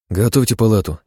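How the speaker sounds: firm order to the staff; commanding. Acted. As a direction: give the order crisply. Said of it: "скомандовал я".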